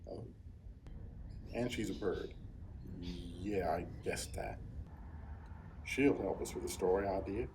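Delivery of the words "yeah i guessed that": dry whisper under the breath; whispered aside. Real, not acted. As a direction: mutter it to yourself unvoiced. Deadpan aside after obvious remark.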